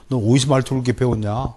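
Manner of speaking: normal talking voice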